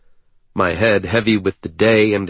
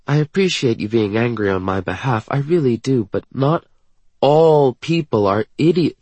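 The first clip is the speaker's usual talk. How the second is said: lightly voiced, higher character; gently protesting young woman; 5 semitones higher than usual. Woman objecting to her angry partner, mildly protesting. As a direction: reason with him, a touch reproachful.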